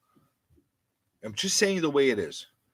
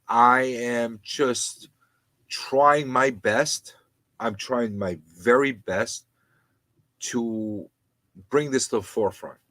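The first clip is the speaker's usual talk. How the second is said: sincere; slower than usual. Real, not acted. Humbly answering a compliment.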